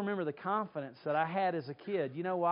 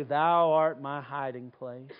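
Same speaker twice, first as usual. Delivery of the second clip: lower, slow, trusting recital; quiet confidence; 5 semitones lower, 4 dB louder, slower than usual. Retold or imitated. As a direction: say it softly, like someone restored. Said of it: "and then you'd say".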